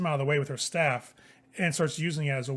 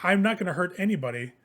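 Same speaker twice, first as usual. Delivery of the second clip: raised-pitch, lightly voiced old woman; old woman replying; 4 semitones higher, 4 dB louder than usual. Old woman to frightened servant, lightly voiced retort. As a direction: reassure with a hint of indignation. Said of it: "the other is like".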